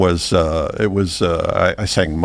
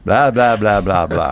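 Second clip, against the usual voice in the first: dismissive run of blahs, pitched up then dropping; mocking blah-blah. Dog fed up with visitors' questions, mocking.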